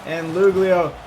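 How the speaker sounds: fast, rising sports commentary; live play-by-play. Acted. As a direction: call the game as it happens.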